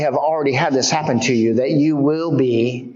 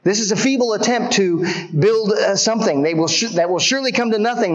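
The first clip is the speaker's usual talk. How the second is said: sneering taunt, pitched up; mocking enemy; 6 semitones higher, faster than usual. Preacher voicing Sanballat mocking the wall builders, sneering. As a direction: scoff at the builders' feeble work. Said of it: "they start to mock the work".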